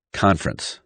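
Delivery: "Conference" in two syllables, KAHN-frence; omitted syllable. Shown as a demonstration. Teacher showing omitted syllables, "Conference" as KAHN-frence. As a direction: drop the middle vowel of "Conference". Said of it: "Omitted syllables".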